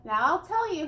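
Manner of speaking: put-on a muffled old recluse leaning in close; buzzing, nasal old storyteller; old Onceler voice. A narrator's reading. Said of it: "he sounds as if he had smallish bees up his nose".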